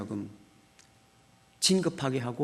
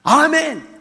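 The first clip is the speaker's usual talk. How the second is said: mild loud amen; 5 semitones higher, 5 dB louder, much slower than usual. Retold or imitated. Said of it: "크게 했어요".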